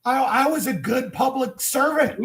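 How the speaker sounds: loud sharp voice. Real, not acted. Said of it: "Why are you yelling?".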